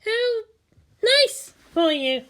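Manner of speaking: put-on high girl's voice, slow and unimpressed; deadpan the line, no interest; flat reply. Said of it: "Asuka responded flatly".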